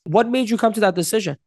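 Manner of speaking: caring, curious question; right tonality. Shown as a demonstration. Coach showing right wording with right tonality, curious. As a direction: ask openly, without any attack. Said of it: "with the right tonality".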